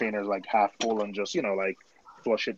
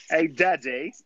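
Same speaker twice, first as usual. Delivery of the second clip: put-on higher-pitched posh British little kid; Peppa Pig; 5 semitones higher, slower than usual. Showing friends the cartoon voice, mock Peppa Pig. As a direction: call daddy like a cartoon British child. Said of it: "that's Peppa Pig".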